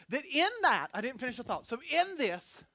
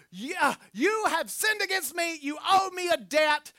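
loud, slow accusing shout; a creditor yelling at the woman who owes her; demanding, shouting; 4 semitones higher, 4 dB louder, slower than usual. Acted. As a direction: demand the debt like a bully. Linda demanding a debt back.

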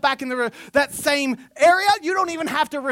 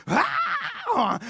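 mock scream; 8 semitones higher, 4 dB quieter than usual. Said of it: "they back up when they scream".

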